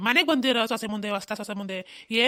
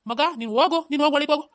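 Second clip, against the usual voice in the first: louder, higher command; loud order; 4 semitones higher, 7 dB louder than usual. Acted. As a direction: order him inside. Father orders son inside. (ಜೋರಿನ ಆಜ್ಞೆ)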